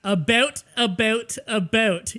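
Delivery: "about" repeated with a rounded O in the ou; separate, emphatic "about" each time, never "a boot"; Ontario pronunciation. Shown as a demonstration. Canadian demonstrates to teasing friend, stressing the ou of "about". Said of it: "We just pronounce the O more than you".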